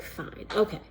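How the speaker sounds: casual, offhand fine okay; nonchalant. Retold or imitated. Shrugging off the Lord's call, casual and offhand. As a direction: toss it off like it's no big deal. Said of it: "very nonchalant".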